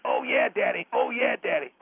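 the deep way you meant to sound; deep mock macho voice. Shown as a demonstration. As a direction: drop into a deep growl of bravado. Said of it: "The way you're saying it is this".

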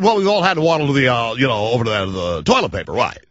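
lightly mock the rival host; Comb Over Boy voice. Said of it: "And he talks like he said".

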